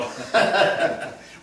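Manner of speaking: loud breathy laugh; real laugh. Real, not acted. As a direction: laugh at the story. Fish stew won his heart.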